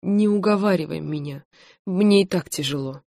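ordinary delivery, nothing marked

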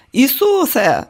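high, loud exasperated yell. Acted. Director yelling at the nurse actress, loud. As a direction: explode at the actress. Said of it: "заволав режисер".

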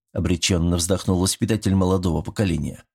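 usual speaking voice

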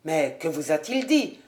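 lightly voiced older father, concerned; worried father. A narrator's reading. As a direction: call out to his daughter with relief. Sir William voiced in audiobook.

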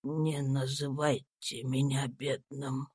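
dying Tom comforting himself, a faint slow whisper; weak dying voice. A narrator's reading. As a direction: barely breathe the words out. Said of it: "проговорил Том торжественно".

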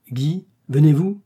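slow, high, loud summons; calling out. Acted. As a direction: call across to him from a boat. Calling to him from the boat.

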